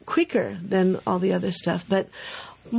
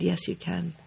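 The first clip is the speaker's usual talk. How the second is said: calm reassurance; 7 dB quieter than usual. Retold or imitated. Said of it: "Just, just that much".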